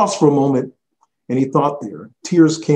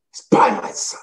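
whispered. Acted. Quoting faith to say aloud.

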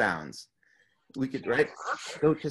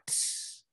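snake hiss; 14 dB quieter than usual. Shown as a demonstration. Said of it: "kinda like a snake".

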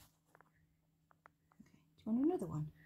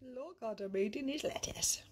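soft unvoiced whisper to the pet; 5 semitones higher, 5 dB quieter than usual. Real, not acted. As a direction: breathe it out so as not to disturb him. Whispering while watching the pet.

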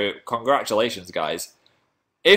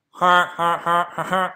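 mock laugh; 7 semitones higher, slower than usual. Voices a toy before identifying it.

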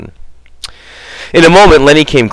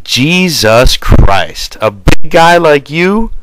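blubbering; 6 semitones higher, 3 dB louder, much slower than usual. A narrator's reading. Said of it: "Lenny's whimpering cry".

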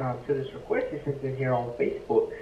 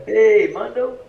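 tag; 9 semitones higher, 11 dB louder, slower than usual. Shown as a demonstration. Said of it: "Try it again".

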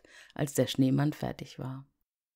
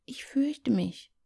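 put-on high, slow, scared child's whisper; frightened whisper; 10 semitones higher, slower than usual. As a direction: breathe it out afraid under the covers. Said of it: "flüsterte ängstlich Liese". (ängstliches Flüstern, langsam)

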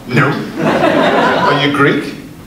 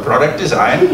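a light, lower mock German accent on Product design; 5 semitones lower than usual. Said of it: "That was an accent, say as well".

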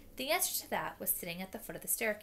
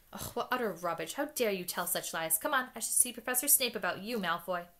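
stern dismissal; 4 dB louder than usual. Acted. McGonagall dismissing Malfoy.

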